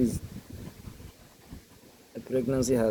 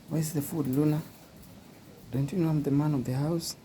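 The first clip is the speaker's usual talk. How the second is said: a lightly raised, higher pup voice demanding food; voicing the puppy; 4 semitones higher than usual. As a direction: play the puppy as the bossy man of the house. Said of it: "Puppy is asking for the food".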